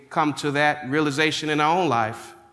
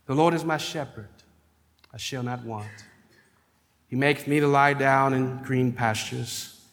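scripture reading. Acted. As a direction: read it aloud like a prayer. Reads Psalm 23 aloud.

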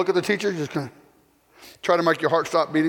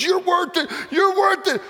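fervent reassurance; 13 semitones higher, slower than usual. Acted. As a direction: lift him up with it. Son reassuring servant.

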